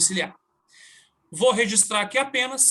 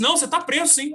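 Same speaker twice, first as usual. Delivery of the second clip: stern judge; 6 semitones higher, 4 dB louder, faster than usual. Retold or imitated. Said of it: "Aí ele falou assim".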